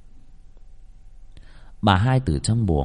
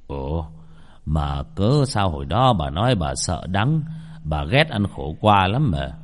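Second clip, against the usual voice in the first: surprised; 4 semitones lower than usual. Acted. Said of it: "Ông ngạc nhiên".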